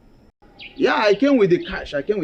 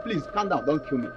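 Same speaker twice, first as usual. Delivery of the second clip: softer, pleading for life; frightened begging; 4 dB quieter than usual. Acted. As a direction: beg the gunman to calm down. Victim begging not to be killed.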